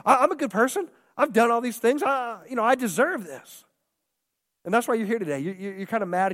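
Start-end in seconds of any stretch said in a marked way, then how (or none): 0.1-3.7 higher, indignant self-defence; mock the wronged good person; indignant complaint. Angry churchgoer protesting to God, mock indignant and higher. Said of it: "And you're saying".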